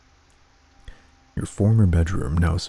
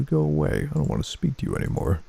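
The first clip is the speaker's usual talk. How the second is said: high, quick dismissal; shrill sister; 8 semitones higher than usual. Acted. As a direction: push him away fast. Sister rejecting brother.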